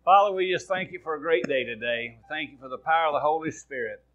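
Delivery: earnest spoken prayer to God. Acted. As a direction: pray it out over the congregation. Pastor prays before the sermon.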